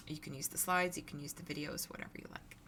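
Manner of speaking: hoarse, scratchy throat. Real, not acted. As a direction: speak through a scratchy voice. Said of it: "apologize for the scratchy voice".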